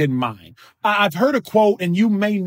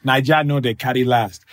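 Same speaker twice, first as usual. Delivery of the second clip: Nigerian accent; 4 semitones lower than usual. Shown as a demonstration. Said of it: "with the Nigerian accent".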